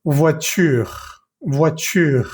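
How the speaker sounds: "voiture" ending on a clear R; "voiture" with the final e dropped; silent final e. Shown as a demonstration. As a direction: say French "voiture" up to the R, no e after it. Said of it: "escuchas muy bien la R".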